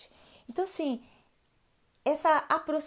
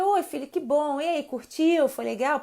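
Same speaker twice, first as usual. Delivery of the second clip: welcoming; 3 semitones higher, 3 dB louder than usual. Shown as a demonstration. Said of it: "Então, assim, é receber".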